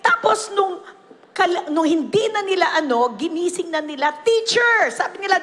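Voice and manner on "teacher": mock panicked cry. Frightened disciples wake the Lord.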